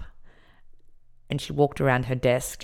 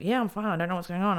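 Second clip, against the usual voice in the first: flustered reply; 5 semitones higher, faster than usual. Retold or imitated. Flustered reply while rushing along.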